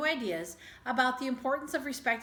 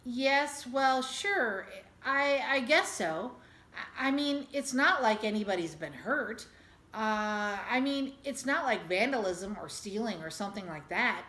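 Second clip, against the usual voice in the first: hesitant, stammering agreement; lost and unsure. Acted. Father unsure whether to agree with his wife, stammering. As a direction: fumble for an answer. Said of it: "He was lost".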